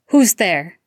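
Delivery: loud, wary call into the dark; shouted challenge. Acted. Sirius calling into the dark woods, loud. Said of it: "Sirius shouted".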